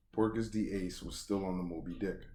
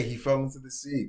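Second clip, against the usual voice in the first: higher, louder crew call-out, lightly voiced; crew announcing; 7 semitones higher, 7 dB louder than usual. Crew member spreads word Ace fell, mild mock call. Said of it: "That's what they're saying".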